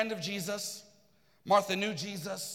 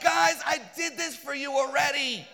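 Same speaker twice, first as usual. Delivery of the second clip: exasperated call; 5 semitones higher, 3 dB louder than usual. Retold or imitated. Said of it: "And Jesus is like".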